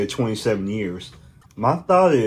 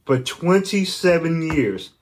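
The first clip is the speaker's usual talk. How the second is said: mock disbelief; slower than usual. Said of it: "I'm like".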